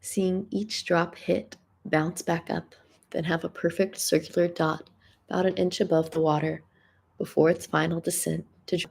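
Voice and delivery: measured spoken-word delivery with pauses; deliberate recital, letting each phrase land; poetry reading. Real, not acted. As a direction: read your own poem aloud, phrase by phrase. Resumes reading own piece.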